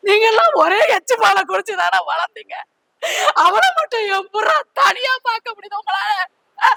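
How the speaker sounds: sobbing out the words as she scolds; a mother's tearful outcry; crying reproach. Acted. Mother crying at her children for shunning their brother, sobbing reproach.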